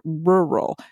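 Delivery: "rural" said low, working through both r sounds; "rural" as a careful tongue-twister; hard word demo. Shown as a demonstration. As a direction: labour over the r's in "rural". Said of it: "rural's really hard".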